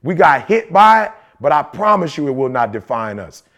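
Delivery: low, earnest vow, almost hushed. Retold or imitated. Husband quoting his promise to his sick wife, low and earnest. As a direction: promise your partner, low and sure. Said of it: "I'm like".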